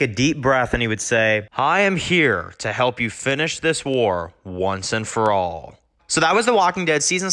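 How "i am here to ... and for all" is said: slow, low, resolute declaration; steady yourself and swear it; understated solemn Dwight; solemn vow. Retold or imitated. Dwight takes deep breath, declares.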